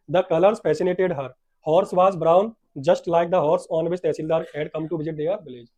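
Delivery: slow, emphatic English read-aloud; read-aloud story. A narrator's reading. Teacher reading the English lesson to the class, slow story reading. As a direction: read the lesson out loud and very slowly.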